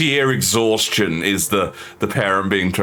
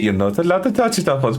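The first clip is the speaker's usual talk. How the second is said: stern parent; 9 semitones higher than usual. Acted.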